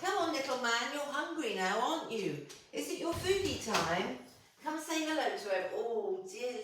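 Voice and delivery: high, soft sing-song for a pet. Real, not acted. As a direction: coo at the little dog. Talking to her old dog.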